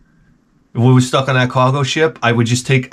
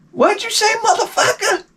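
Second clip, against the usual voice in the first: very high, indignant mock Black woman accent. Jamie Bond's voice back, retorting.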